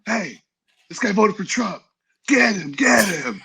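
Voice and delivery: high, slow mock cry of alarm. Luke accusing a new reporter, high mock cry. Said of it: "he'd be like".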